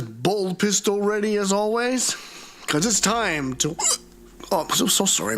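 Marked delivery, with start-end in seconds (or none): 2.7-5.4 talking through hiccups; interrupted by sudden hiccups. Real, not acted. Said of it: "I got the hiccups all of a sudden".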